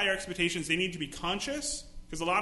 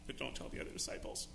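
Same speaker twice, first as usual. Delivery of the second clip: conspiratorial whisper; hushed secret aside; 10 semitones lower, 9 dB quieter than usual. Retold or imitated. Disciple whispering to a friend not to tell the others.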